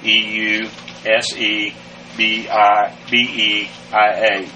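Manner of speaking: Eusebia spelled slowly, letter by letter; slow spelling. Shown as a demonstration. Teacher spelling Eusebia slowly for students. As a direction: spell it out carefully.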